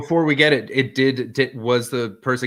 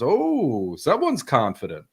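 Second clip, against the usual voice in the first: swooping drawn-out "oh", mock-impressed; lightly acted mocking remark; retold snide director; slower than usual. Casting director to a walking-in auditionee, snide.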